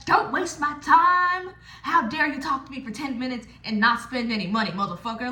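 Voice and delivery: snotty, demanding customer brush-off; mock a rude girl who snaps at him; hammed-up rude dancer scolding a customer; rude pushy line. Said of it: "It's not too pushy".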